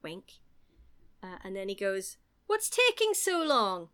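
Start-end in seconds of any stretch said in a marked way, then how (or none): 2.5-3.9 higher, slow impatient call; mild mock yell. Quoted impatient shout.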